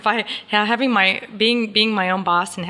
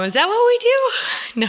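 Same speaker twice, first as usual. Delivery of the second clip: mock innocent question; 14 semitones higher, slower than usual. Mock question about business.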